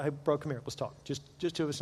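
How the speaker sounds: hushed, confidential aside; pulling him aside. Retold or imitated. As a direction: drop your voice, man to man. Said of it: "I'll pull him aside".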